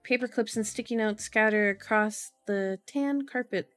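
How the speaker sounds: measured audiobook-style reading; story narration. A narrator's reading. Streamer reading a novel to viewers, story narration. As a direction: read the story out evenly and clearly.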